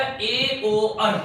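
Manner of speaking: ए ओ आर very slow, every vowel stretched; slow drill. Shown as a demonstration. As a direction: drag out ए ओ आर for memorising. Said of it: "ठीक है जी".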